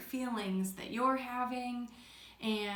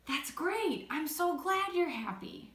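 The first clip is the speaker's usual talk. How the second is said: glad reply; 5 semitones higher than usual. Shown as a demonstration.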